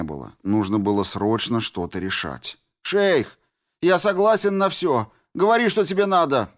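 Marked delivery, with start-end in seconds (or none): 2.8-6.5 высоко и громко, торопливо умоляет; голос срывается от страха; отчаянная мольба. A narrator's reading. (отчаянная мольба Рябого)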